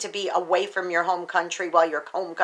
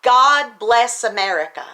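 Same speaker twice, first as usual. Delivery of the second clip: loud; 3 semitones higher, 4 dB louder than usual. Real, not acted. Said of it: "and I will say it loudly".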